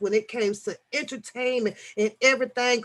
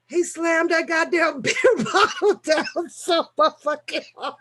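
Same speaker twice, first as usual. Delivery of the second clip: laughing while telling; 6 semitones higher than usual. Real, not acted. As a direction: pitch climbing as laughter takes over. Cracking up retelling bottle slamming.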